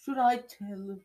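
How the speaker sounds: high, slow half-whispered tease; scheming Peeves. Acted. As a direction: dangle the threat, high and drawn out. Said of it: "said Peeves".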